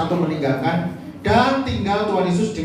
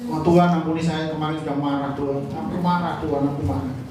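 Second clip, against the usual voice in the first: mock sinner's prayer; 6 semitones lower than usual.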